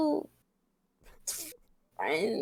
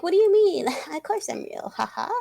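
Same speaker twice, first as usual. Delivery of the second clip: high, loud fake-innocent reply; mock fake girl; 8 semitones higher, 5 dB louder than usual. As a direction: play the catfisher all sweet and fake. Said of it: "And be like".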